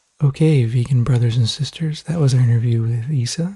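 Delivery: gentle, soothing, new-age calming delivery. Host wrapping up an interview with Isa, new-agey calming voice. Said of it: "what's with the new agey voice?".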